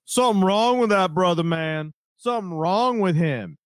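lightly voiced over-the-top radio host; mock Donovan McNabb, mildly hammed up; Donovan McNabb impression. Host mimicking McNabb's radio rant. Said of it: "you don't like my Donovan McNabb impression".

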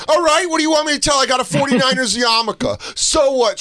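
imitating himself as a kid. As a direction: shrug it off as a teen.

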